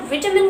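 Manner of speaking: विटामिन with a short middle vowel; almost correct version. Shown as a demonstration. Teacher shows the nearly correct form, short middle विटामिन. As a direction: say विटामिन as VI-tuh-min. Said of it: "So vitamin is almost correct".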